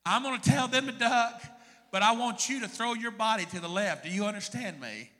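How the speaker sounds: urgent command. Retold or imitated. Guide giving urgent orders.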